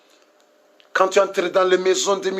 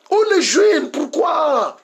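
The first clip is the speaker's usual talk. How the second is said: crying plea; 5 semitones higher, slower than usual. Real, not acted. Preacher pleads with lost youth.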